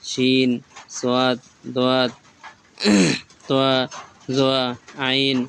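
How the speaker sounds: letter names stretched long, one by one; slow, stretched Arabic letter names; drawn-out recitation. Shown as a demonstration. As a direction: draw out each letter name like a Quran teacher. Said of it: "শুরু থেকে শেষ পর্যন্ত একবার পড়ব".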